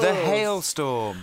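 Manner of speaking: slow, drawn-out epic name; dramatic announcer. Acted. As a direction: boom it like a title. Dramatic nickname drawl.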